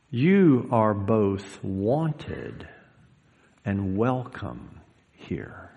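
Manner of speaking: very slow, soft reassurance; tender welcome. Acted. Preacher voices Jesus welcoming him, slow and tender. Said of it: "he says to me".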